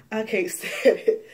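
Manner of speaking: gasp, then laugh through it; exasperated laughing gasp; breathy exasperated laugh. Real, not acted.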